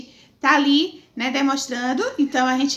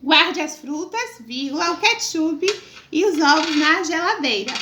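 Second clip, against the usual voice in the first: slow dictation. Shown as a demonstration. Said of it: "O ponto da vírgula e também o ponto final".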